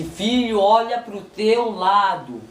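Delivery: slow, drawn-out instruction to a son; Deus falando devagar. Retold or imitated. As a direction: stretch each word as God's command. Fala de Deus ao filho. (Deus falando pausadamente)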